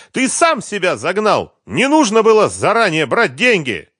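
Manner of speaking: high, loud cry; shouting. A narrator's reading. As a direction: scream it back at him. Quarrel continues. (Маша кричит на Харькова в ответ)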